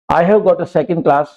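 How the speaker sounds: very slow, word by word; slow example sentence. Shown as a demonstration. Teacher reading an example sentence to students, very slow. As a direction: dictate it slowly to learners. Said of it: "example sentence read slowly".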